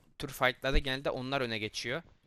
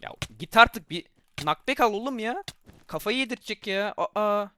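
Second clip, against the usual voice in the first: frustrated shout; 7 semitones higher, 8 dB louder than usual. Real, not acted. Frustrated at opponent in game.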